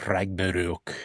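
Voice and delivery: Ragnarok in an odd put-on accent; weird accent. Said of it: "That's a weird accent".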